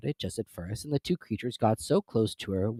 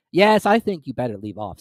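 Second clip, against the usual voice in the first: Griffin voice; 7 dB louder than usual. A narrator's reading.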